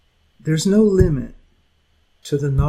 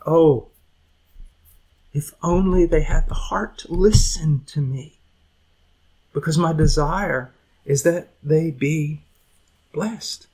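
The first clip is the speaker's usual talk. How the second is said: God crying out. Retold or imitated. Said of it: "a God who is crying out".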